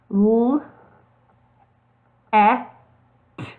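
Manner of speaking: I and N sounded one by one, each held apart; teacher modelling I, N letter by letter; sounding out letters. Shown as a demonstration. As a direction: sound out I, then N, slowly for young readers. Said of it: "let's sound out the first one".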